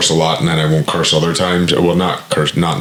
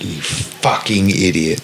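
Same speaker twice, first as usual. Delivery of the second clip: drawn out; 3 dB quieter, slower than usual. Shown as a demonstration. Repeating a swear, drawn out.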